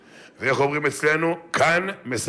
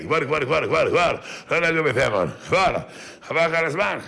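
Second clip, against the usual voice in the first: put-on lightly higher Yemenite accent, pushing; a touch of Yemenite, insisting it's wrong; mock Yemenite insistence; 4 semitones higher than usual. Dead Yemenite man insists on his custom, light Yemenite accent. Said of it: "גם כשהם נפטרים יש להם מה להגיד".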